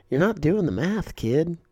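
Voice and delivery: lightly voiced older shooter lecturing a kid; imitating the old shooter. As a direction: play the know-it-all veteran at the range. Old shooter scolds the narrator.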